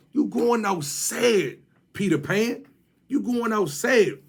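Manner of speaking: slow mocking chant at Peter Pan; taunting. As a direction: chant it to rub it in.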